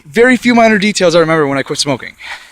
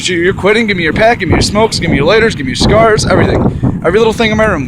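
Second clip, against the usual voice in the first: put-on bossy girlfriend; 5 semitones higher, 4 dB louder than usual. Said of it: "She told me".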